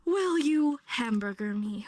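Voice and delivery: lightly acted marriage proposal; mock proposal. Teacher jokes about a botched proposal, mock-earnest slow question. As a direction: pop the question slowly, in jest. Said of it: "if you're about to propose".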